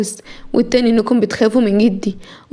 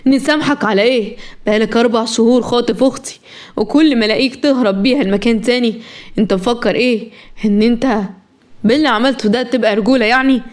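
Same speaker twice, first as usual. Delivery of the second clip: understated indignant challenge; mildly heated angry brother; angry outburst. Acted. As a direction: confront him with restrained outrage. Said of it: "احمد انفجر وقال".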